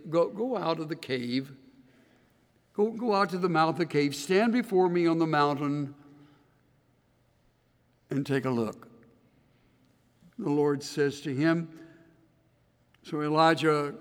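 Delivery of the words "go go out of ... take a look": gently. Acted. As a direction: coax him out kindly. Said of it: "he says very gently".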